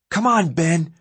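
loud high goading yell; needling yell. A narrator's reading. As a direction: needle him, shouting. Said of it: "DeAndre needled at him".

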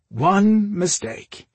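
slow, high, loud lament; rueful indignation. A narrator's reading. Brother lamenting his old error, indignant. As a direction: drag out both words in disbelief.

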